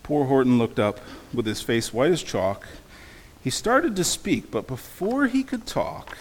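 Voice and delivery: suspenseful read-aloud with swooping pitch; storybook reading. A narrator's reading. Preacher reads the egg starting to hatch, dramatic storytelling. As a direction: build the suspense toward the noisy hatching. Reads picture book to congregation.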